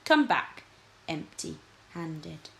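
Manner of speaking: loud, imperious command; a haughty king sending his lords off; stern king's order. Acted. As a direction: lay down the law to them.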